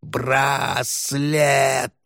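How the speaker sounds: wailing, high ghostly moan; sobbing ghost voice. Acted. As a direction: wail like a mournful ghost. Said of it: "С каждым стоном призрак".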